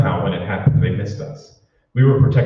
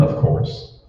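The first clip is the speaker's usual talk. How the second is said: whispered aside. Acted. Secret meeting, fear of them.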